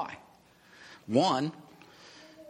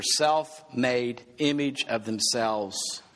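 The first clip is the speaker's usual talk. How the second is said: slowed emphasis; much slower than usual. Shown as a demonstration. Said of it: "repeated for emphasis".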